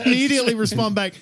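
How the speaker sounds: talking through laughter; laughing. Real, not acted. Laughing while retelling.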